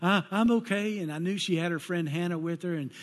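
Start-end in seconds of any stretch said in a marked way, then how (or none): 0.0-1.0 shaken daughter. Retold or imitated. Daughter on phone after crash.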